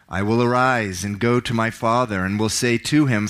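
dramatic Bible reading, voicing the characters; scripture reading. Pastor to congregation, dramatic scripture reading. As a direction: read the parable with feeling, rising for the son's pleas. Preacher reads the prodigal son.

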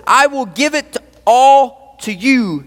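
high, slow, drawn-out proclamation; grand offer. Acted. Devil tempting Jesus with the kingdoms, grand offer. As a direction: stretch each phrase of the offer grandly.

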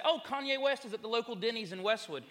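high, loud mock-excited report; excited students. Students telling of a celebrity sighting, mock-excited. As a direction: imitate students gushing over a sighting.

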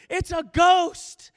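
high, drawn-out shouts of alarm; frightened crying out. Acted. Disciples see a ghost on the water, frightened shouts. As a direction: cry it out loud in terror. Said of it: "they cry out like".

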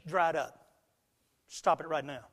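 low, quiet order from an imitated dad; stern father. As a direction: shut down the crying with a hushed parental command. Imitates dad ordering crying to stop.

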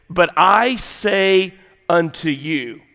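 slow, deliberate declaration; solemn scripture quote. Acted. Preacher quoting Jesus to the congregation, solemn and slow. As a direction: give each phrase weight, slowly. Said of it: "he's gonna say".

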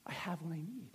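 near-whispered, low and soft; intimate, breath-only punchline; hushed conclusion. Acted. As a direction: drop to a whisper to land the point. Hushed close after loud build.

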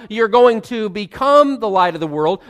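BECOME leaned on as the wrong tense; stress on BECOME. Shown as a demonstration. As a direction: hit BECOME with a lift.

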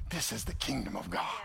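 soft, low awed murmur; hushed inner thought. Retold or imitated. Preacher recalls his thought at the river, hushed and awed. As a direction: breathe it like a private realization. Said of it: "And I'm thinking to myself".

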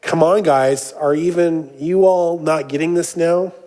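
a touch of exasperated disbelief; understated emphatic appeal; mildly emphatic. Acted. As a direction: lightly press the point, as if to slow pupils. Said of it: "a little bit more emphatic even than that".

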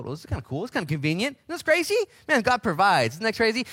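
a hint of a delighted Jonah; rising into mock amazement at the boat; lightly voiced Jonah, pleased God provides; voicing Jonah. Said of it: "There was a boat".

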